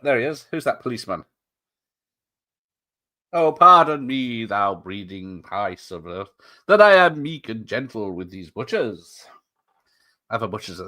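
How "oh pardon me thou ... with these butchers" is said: slow, grand stage delivery, big on the opening; hammed-up theatrical speech, slow and swelling; dramatic Shakespeare recital. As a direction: declaim it like a ham actor on stage. Reciting Shakespeare along with film.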